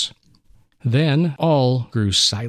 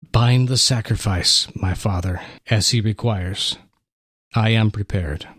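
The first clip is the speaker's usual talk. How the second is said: calm surrender; 4 semitones lower than usual. Acted. Son surrendering to sacrifice.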